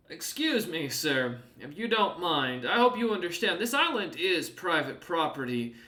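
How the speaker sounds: lightly voiced polite but firm guard; formal warning. Scartsmander warning Keswick the island is private property. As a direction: politely lay down the rules. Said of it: "looks back at, uh, Keswick and goes".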